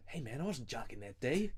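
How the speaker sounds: put-on drawled accent, mock-protesting; a drummer. Podcaster mimicking the drummer's protest to a co-host, in a silly put-on voice. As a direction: do a daft impression of a protesting bandmate. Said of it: "and he goes".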